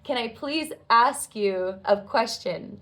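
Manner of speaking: slow, deferential request; very humble. Retold or imitated. Student approaching a departing guru, very humble and slow. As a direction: ask humbly, drawing the words out slowly. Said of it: "I come very humbly and I say".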